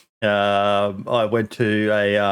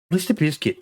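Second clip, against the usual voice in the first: higher, announcer-like bio intro; mock-formal presenter pitched up; professional voice; 7 semitones higher than usual. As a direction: put on a professional read-out voice. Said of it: "put on my, um, professional voice".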